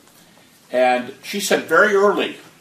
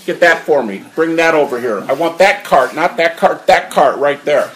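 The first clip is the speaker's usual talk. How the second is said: louder, emphatic mock commands; acted brisk orders; 6 dB louder than usual. Surgeon pointing things out with his elbows, acted bossy orders. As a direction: order the staff about as the imitated surgeon.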